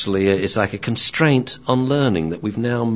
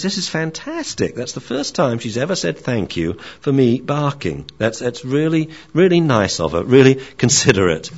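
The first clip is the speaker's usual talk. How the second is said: lightly voiced delighted dog, higher pitch; dog's thoughts; 4 semitones higher than usual. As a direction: speak as an impressed, grateful dog. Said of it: "the dog thinks".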